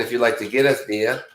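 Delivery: mock Boston accent, r dropped in there; lightly put-on Boston accent. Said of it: "Boston accent".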